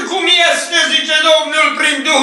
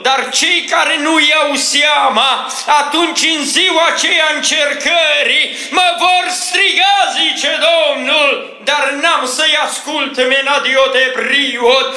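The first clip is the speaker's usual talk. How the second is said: prophetic preaching. Real, not acted. Prophet speaking for the Lord to the covenant people, fervent preaching. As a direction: preach it in bursts, slowing into tongues.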